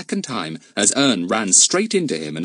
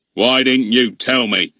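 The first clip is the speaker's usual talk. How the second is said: unfair blame; 3 semitones higher, 5 dB louder than usual. A narrator's reading. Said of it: "said Mister Goon unfairly".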